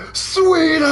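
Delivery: high excited yell; shouting a name. Real, not acted. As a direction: call out the name loudly. Yelling Sweeta's name.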